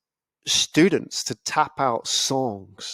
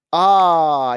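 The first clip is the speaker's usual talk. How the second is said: long, loud "ah" as it clicks; dawning realization; 3 semitones higher, 6 dB louder than usual. Acted. Listener suddenly understanding the data, drawn-out realization. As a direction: let the penny drop audibly.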